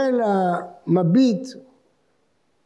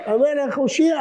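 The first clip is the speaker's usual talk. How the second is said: higher-pitched mock plea to the king; imitated cry for help; 4 semitones higher than usual. Man falling at the king's feet, imitated pleading cry. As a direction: cry out for rescue without really shouting. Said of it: "ומישהו היה מתנפל לרגליו וצועק".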